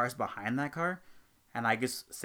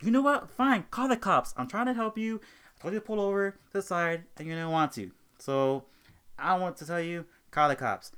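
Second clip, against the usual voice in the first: retold angry outburst, much higher and louder; snapping; 5 semitones higher, 5 dB louder than usual. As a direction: snap back at the customer, fed up. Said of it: "And then I snapped".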